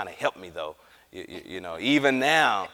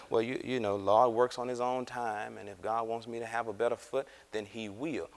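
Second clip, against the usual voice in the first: covering for God; 2 semitones lower, 5 dB quieter than usual. Retold or imitated. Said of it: "What she's doing is covering for God".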